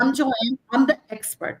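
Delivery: assured self-introduction; confident. Acted. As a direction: introduce yourself as the authority in the room. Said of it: "So that confidence".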